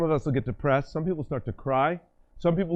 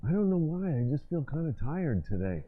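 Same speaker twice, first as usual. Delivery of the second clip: softer, a touch of tired; mock tired slump; 4 dB quieter than usual. Shown as a demonstration. Slumped-office demo, softer mock tiredness. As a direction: droop into a lightly played tired sigh. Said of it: "Torso, eyes".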